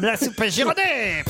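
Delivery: slow sung-out brand slogan; ad jingle. Pretend. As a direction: sell it like a radio jingle. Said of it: "C'est toujours un jingle quand je fais ma réclame".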